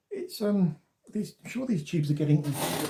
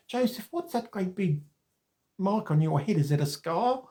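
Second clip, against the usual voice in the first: higher-pitched, badly faked Australian accent; 4 semitones higher than usual. Australian chap asking about a forehead mark out of nowhere, bad Australian accent. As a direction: have a poor go at sounding Australian. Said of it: "Terrible Australian accent".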